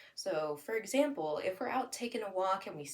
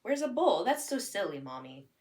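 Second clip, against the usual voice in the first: lightly voiced child calling it silly; a touch of a kid scolding Mommy; a hint of child voice; 3 semitones higher, 6 dB louder than usual. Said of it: "your kid at this point will be like".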